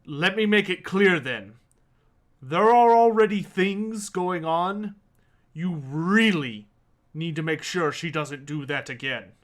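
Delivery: a hint of a stern warning dwarf; firm, measured warning; lightly stern old dwarf. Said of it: "gives you a really stern look".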